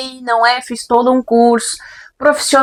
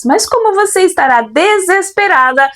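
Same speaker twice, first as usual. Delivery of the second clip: flight attendant announcement; 3 semitones higher than usual. Acted. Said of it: "veio motivada ela hoje como comissária de bordo".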